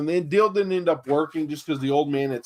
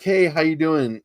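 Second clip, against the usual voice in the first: slow friendly greeting; 3 semitones higher than usual. Shown as a demonstration. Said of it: "you have to understand where you're calling".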